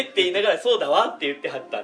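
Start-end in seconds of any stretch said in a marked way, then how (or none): 0.6-1.1 ladylike speech. Retold or imitated. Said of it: "「何々だわ」".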